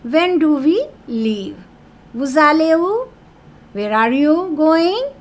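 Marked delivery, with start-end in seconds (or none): 2.1-3.1 "Vous allez où" pitched up as a spoken question; raised questioning tune on "Vous allez où"; intonation question. Shown as a demonstration. Teacher gives an everyday speech example, intonation question on "Vous allez où". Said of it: "familiar intonation form of questioning".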